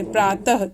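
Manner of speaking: प्रातः ending in an audible breath of h; visarga as "ah". Shown as a demonstration. Teacher shows how visarga is read, प्रातः ending in "ah". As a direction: sound the end of प्रातः as "ah". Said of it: "इसका उच्चारण अह की तरह होता है".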